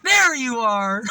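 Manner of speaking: high, loud and slow greeting; mock cheery shout. Narrator taunting the cursing beggar, high loud shout. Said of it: "And I said".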